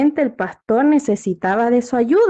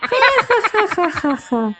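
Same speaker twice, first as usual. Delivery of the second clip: high burst of shepherd's laughter falling away; hammed-up teasing "ja, ja" laugh; mocking laughter; 6 semitones higher than usual. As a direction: cackle at the fooled villagers. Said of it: "se deshacía en risas por el suelo".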